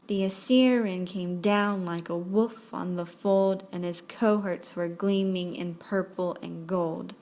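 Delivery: rolling da-da-DUM beat: "the As-SYR-ian came DOWN"; anapestic stress. Shown as a demonstration. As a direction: stress every third syllable, "like a WOLF on the FOLD". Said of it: "unstressed, unstressed, stressed".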